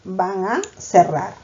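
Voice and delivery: van a cerrar said slowly, word by word as a clause example; slow and deliberate, like dictating to a class; slow, spelled-out reading. Shown as a demonstration. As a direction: read it out slowly to mark the clause. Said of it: "Primera proposición".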